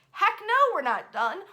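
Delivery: high, loud, fired-up refusal; defiant exclamation. Retold or imitated. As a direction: belt it out like a determined widow. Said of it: "and she says".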